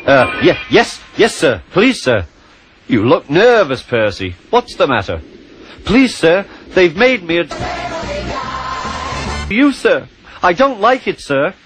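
high, stammering and timid; nervous small engine. Acted. Percy nervously pleading to the Fat Controller, high and timid. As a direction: stumble over the yeses, scared of the boss.

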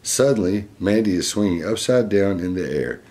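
lively, clearly projected picture-book reading; reading to children. Acted. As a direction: read it out to a little listener. Reads picture book aloud.

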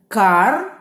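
Кар-то-пля in three separate beats with pauses; loud, spaced-out syllables: Кар-то-пля; split into syllables. Shown as a demonstration. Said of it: "Ділимо слово на склади".

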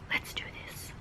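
hushed whisper so nobody wakes; breathy late-night whisper to the camera. Real, not acted. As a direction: whisper it under your breath. Late night, others sleeping.

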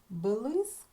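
"блиск" said slowly with a long, clear И; stress on И. Shown as a demonstration. Teacher showing pupils the sound to check, drawn-out И in "блиск". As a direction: stretch the И in "блиск". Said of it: "наголос падає на звук".

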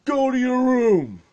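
loud, high, slow scolding shout; scolding shout at the grown parents; mock yell.

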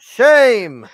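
hammed-up denouncing cry; mock condemnation. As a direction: call it out like a mock public shaming. Mock public shaming of traitor.

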